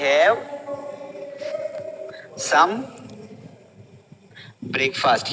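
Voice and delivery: "Have", "some", "breakfast" each spoken alone with long pauses; slow word by word. Shown as a demonstration. Teacher dictating the phrase slowly to learners. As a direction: space every word out slowly. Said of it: "तो बोलेंगे".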